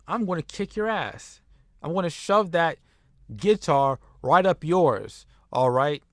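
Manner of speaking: hammed-up wrestler's threat, rising in pitch; mock angry promo. Wrestler calling out the rival who cost him, mock angry. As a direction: act riled, punching out each phrase.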